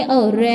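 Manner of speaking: teacher stretching out the sound रे; long vowel sound. Shown as a demonstration. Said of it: "long sound के लिए".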